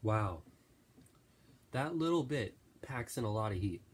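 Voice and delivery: talking through a burning mouth; strained voice, mouth on fire from hot sauce; mouth burning from spicy food. Real, not acted. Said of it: "it's burning my mouth to a crisp right now".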